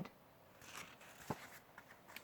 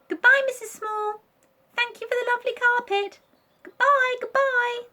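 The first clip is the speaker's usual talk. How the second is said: put-on much higher, louder child voices; cheerful goodbyes; 9 dB louder than usual. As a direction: call out happily while leaving.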